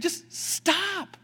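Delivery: high, firm "stop"; John's firm "Just stop"; firm command. Acted. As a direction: tell them flatly to quit it. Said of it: "And so John is saying".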